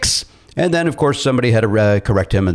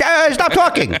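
mock dismissive; 14 semitones higher than usual. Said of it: "all I did was like".

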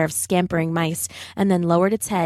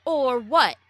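put-on taunting kid; 5 semitones higher than usual. A narrator's reading.

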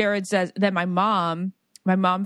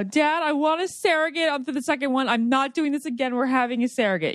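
higher-pitched, pleading declaration to a parent; insistent retold plea; 5 semitones higher than usual. Daughter announcing her surrogate plan to dad, insistent. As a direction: act out putting your foot down, pitched up.

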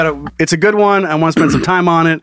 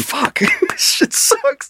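gruff robber; 4 dB quieter, slower than usual. Retold or imitated. Acting out robber's frustration.

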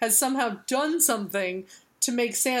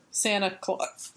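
hiccup. Real, not acted. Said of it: "So excited I hiccuped on Santa Claus".

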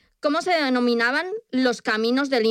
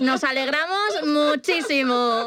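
mock children's host; 3 semitones higher than usual. Quizmaster addressing listeners as kids, mock children's host. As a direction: gush to a young audience, hammed up.

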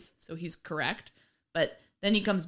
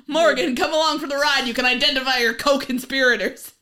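laughing; 6 semitones higher, 8 dB louder than usual. Retold or imitated. Laughing while voicing detective.

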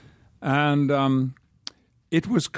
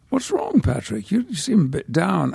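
sub-editor; 6 semitones higher than usual. Retold or imitated. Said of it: "the sub-editor said to me".

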